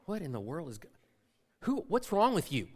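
imitating someone utterly confused; baffled. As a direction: mutter in confusion, then question. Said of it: "so confused. She just kept looking off into the distance".

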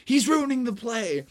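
high, urgent complaint; distressed director. Acted. Director watches Froggy spoil the show, distressed complaint.

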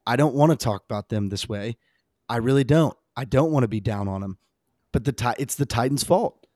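normal talking voice

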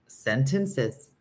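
"Sentences" lilting up on the last syllable; "Sentences" with a rising finish; upward ending. Shown as a demonstration. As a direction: go up at the end of "Sentences". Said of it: "I just went up".

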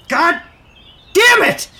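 loud pained curse; angry. Acted. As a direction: swear it out in pain. Hit by the ball.

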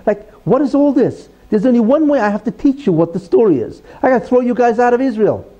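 high-pitched acted exasperation, not shouted; exasperated scolding. God scolding the people before throwing them out, exasperated. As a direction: play a parent at the end of their patience.

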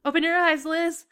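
dramatic wake-up call. A narrator's reading. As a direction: call to someone slipping away. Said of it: "the voice calling to you".

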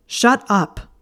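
high, loud shout; shouted in unison. A narrator's reading. Draco and Theo shouting Blaise down, high and loud. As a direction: yell him down together.

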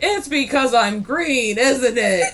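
a hint of wounded Grinch, drawn out; mock indignant Grinch. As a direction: lightly imitate an aggrieved Grinch. Acts out Grinch's indignant line.

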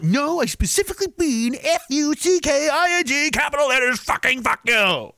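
high, deliberate spelled-out insistence; mock condescending dictation; exasperated spelling out. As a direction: spell it out to a dumb phone. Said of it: "go and tell it".

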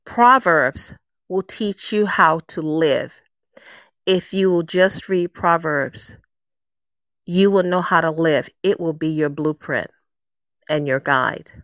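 a lightly voiced God, patient and unhurried. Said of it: "That voice also said to me".

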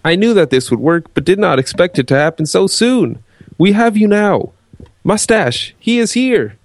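hammy villain voice, gloating; evil henchman taunting his captives. Acted.

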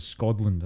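SCOTLAND drawn out as "Scodland"; wrong D pronunciation. Shown as a demonstration. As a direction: put a D in the middle of "Scotland". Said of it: "no one says Scotland".

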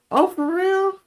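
very high-pitched imitation of a pleased friend; squeal-high surprised question, as the friend; put-on high voice for a friend's reaction; happy friend, imitated. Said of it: "she was happy for me".

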